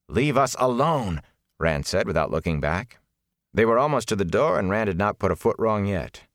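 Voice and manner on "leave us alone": higher, slow and firm; insistent, drawn-out dismissal; firm rebuff. Acted. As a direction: shut him down without stopping. Rebuff while walking away.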